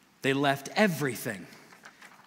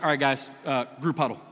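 mock committee talk; faster than usual. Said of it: "Is there like".

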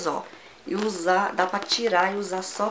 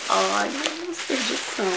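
retold excited gasp; 3 semitones higher than usual. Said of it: "adivinha o que eu vi?".

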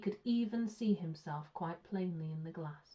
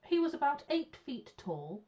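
higher, louder, boldly careless; reckless claim; 8 semitones higher, 5 dB louder than usual. A narrator's reading. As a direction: throw out a wild claim at raised pitch. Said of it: "said Paddington recklessly".

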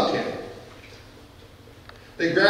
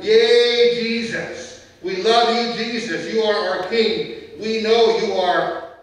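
lightly voiced joyful crowd, louder on Yay; joyful crowd shout; 4 semitones higher, 3 dB louder, slower than usual. Crowd greeting Jesus on the donkey, mild joyful shout. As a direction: cheer like the crowd at the gate. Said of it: "They were shouting".

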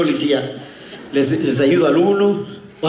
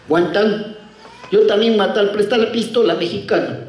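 put-on Chinese accent; 3 semitones higher than usual. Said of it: "El chinito abre".

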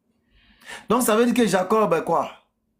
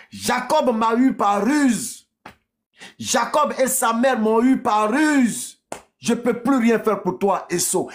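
raised, drawn-out father's lament; acted distress at being tricked; lamenting Isaac; 4 semitones higher than usual. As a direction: cry out the helplessness, slightly hammed-up.

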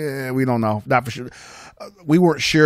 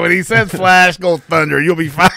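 put-on Italian accent; 6 semitones higher, 6 dB louder than usual. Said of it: "With the accent".

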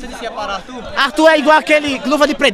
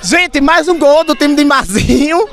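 excited announcement; slower than usual. Real, not acted. Announcing goal to crowd.

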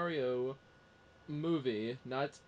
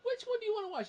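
retold question; faster than usual. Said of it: "He was like".

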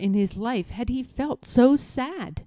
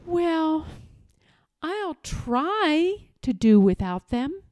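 high, halting, sorrowful king; heartbroken sigh; 6 semitones higher, slower than usual. A narrator's reading. King resigning himself to losing his stilts, heartbroken. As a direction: give in sadly, with long pauses. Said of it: "answered with a heartbroken sigh".

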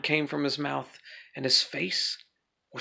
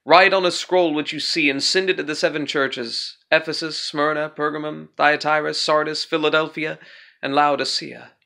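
loud trumpet-like voice; 5 dB louder than usual. Acted. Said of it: "a loud voice behind me like a trumpet".

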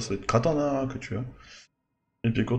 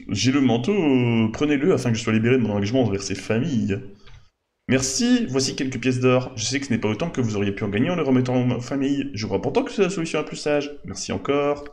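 bad acting. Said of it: "Notre ami le mauvais acteur".

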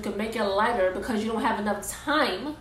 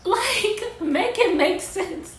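exasperated; 8 semitones higher, much slower than usual. Real, not acted. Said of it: "Because I'm getting mad".

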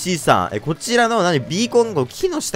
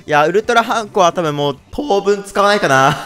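laughing; 5 semitones higher than usual. Real, not acted. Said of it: "repeats line differently".

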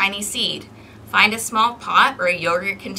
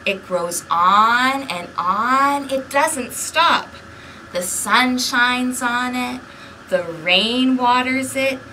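put-on lively read-aloud for small children; storybook narration; 3 dB louder, slower than usual. A narrator's reading. Librarian reading a picture book to kids, lively narration. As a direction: read the story to the little ones.

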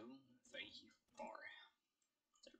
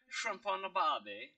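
put-on Aussie accent; mock Australian catchphrase delivery. Shown as a demonstration. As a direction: play up a stock Australian accent. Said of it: "fucking Australian".

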